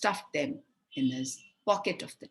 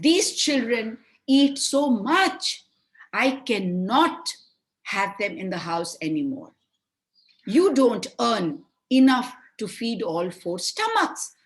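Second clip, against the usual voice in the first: threatening; 3 semitones higher, 5 dB louder than usual. Acted. Stepmother threatening her weak husband at night, angry. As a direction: lay down the law, menacing. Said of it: "she threatened her husband".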